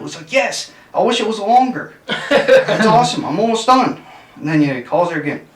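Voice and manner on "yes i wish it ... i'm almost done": high-pitched, loud, giggling through the words; can't hold it together on the punchline; laughing through the quote. Retold or imitated. Telling friends a joke, laughing through the grandson's line.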